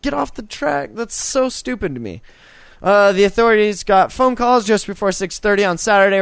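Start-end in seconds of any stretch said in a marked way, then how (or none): 0.0-0.9 high, horn-blowing train driver; honk, then call out the warning high; train driver impression. Train driver warning people off the track, mock impression. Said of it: "The guy usually is like".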